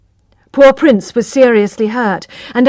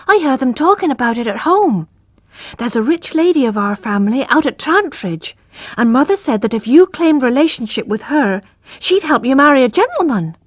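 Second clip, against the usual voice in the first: put-on lightly raised child voice; a little brother teasing his sister; young boy; 5 semitones higher than usual. Little brother Abraham teasing Tess, light child voice.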